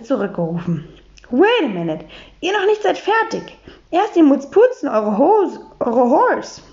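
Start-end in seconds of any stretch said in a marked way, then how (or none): 1.3-6.6 a hint of an English lady speaking broken German; higher, English-accented, prim; light English accent. Miss Brightwhistle calls them back.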